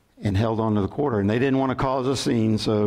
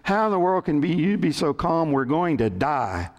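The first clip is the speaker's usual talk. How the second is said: acted panicked shout; 3 semitones higher than usual. Panicked castaway arguing with his calm companion, agitated mock shout. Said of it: "shouted the first man".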